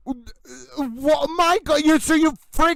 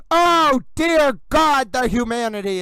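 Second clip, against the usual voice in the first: dramatic lament. Real, not acted. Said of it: "It's actually appropriate for me to say".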